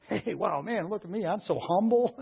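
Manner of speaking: lightly playing a self-impressed show-off, with a laugh; mock boast. Preacher mocks someone proud of their humility, playful mock boast. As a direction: pretend brag, chuckling at it.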